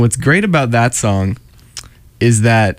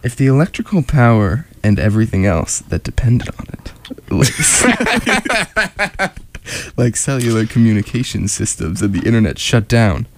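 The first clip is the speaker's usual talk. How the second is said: slow sexy voice. Acted. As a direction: read it slow and sultry. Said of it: "They, they're just talking slow".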